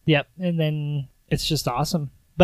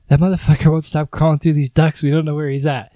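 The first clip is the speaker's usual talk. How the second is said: loud, raised voice of an annoyed villain; loud villain rant; 8 dB louder than usual. Retold or imitated. Hans yelling at his men about the intruder in the ducts, loud and annoyed. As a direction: bark it out like a fed-up terrorist boss.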